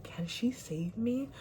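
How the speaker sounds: slow, breathy whispered plea; desperate whisper. Retold or imitated. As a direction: whisper it hoping the toddler can help. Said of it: "was like".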